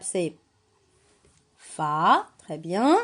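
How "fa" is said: "fa" alone, low, with a held vowel; isolated syllable. Shown as a demonstration. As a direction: sound out the syllable "fa". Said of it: "La première syllabe".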